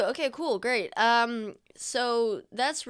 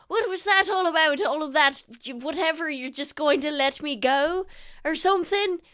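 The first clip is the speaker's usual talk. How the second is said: high, louder confused voice; high baffled protest; 7 semitones higher, 4 dB louder than usual. Acted. Senthet asks his captor what that was about. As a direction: Senthet demands answers.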